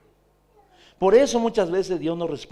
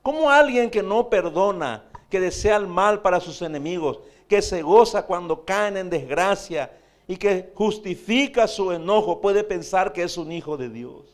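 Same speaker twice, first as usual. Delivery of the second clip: forceful preaching; 4 dB louder than usual. Real, not acted. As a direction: hammer each charge out. Preacher's rhetorical challenge.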